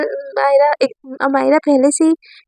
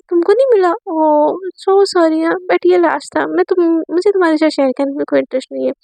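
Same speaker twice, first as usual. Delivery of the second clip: sing-song mock sorry, higher; mocking fake sympathy; 3 semitones higher than usual. Divya taunts Amaira about the last ice cream, mocking. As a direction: rub it in with fake pity.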